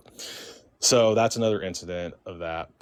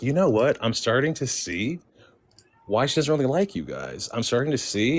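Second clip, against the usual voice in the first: higher, pointed comeback, short of shouting; retold heated retort; 5 semitones higher than usual. Guest tells off the grasping relatives, retold heated retort. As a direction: imitate arguing back in a shouting match. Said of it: "There was, like, a shouting match".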